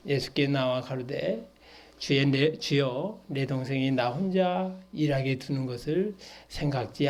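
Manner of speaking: scripture reading. Acted. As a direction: read the verse out, letting endings sink. Reads the verse aloud again.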